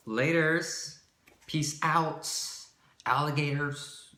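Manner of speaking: sing-song it out like a cartoon farewell; silly sign-off. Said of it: "that sounds so stupid".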